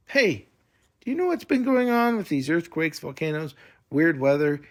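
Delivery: put-on a boy urgently asks the hooded girl about strange events; excited questioning. A narrator's reading. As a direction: rush out worried questions. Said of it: "Nico asked".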